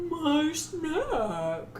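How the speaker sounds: lightly voiced hungry dragon; a hint of greedy dragon. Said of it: "That's my dragon voice".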